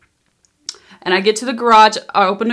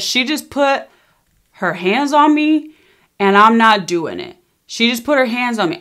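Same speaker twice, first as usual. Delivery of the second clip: higher, upset pleading to dad; retold panicked report to dad, pitched up; distressed; 4 semitones higher, 4 dB louder than usual. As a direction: voice rising with panic on the phone.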